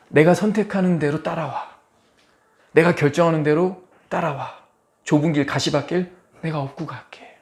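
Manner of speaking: lightly voiced comforting invitation; reassuring God. God offering to carry the weary believer, reassuring.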